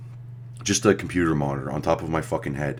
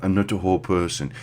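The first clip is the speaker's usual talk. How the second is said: mock African accent; 3 semitones higher than usual. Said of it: "And he's like".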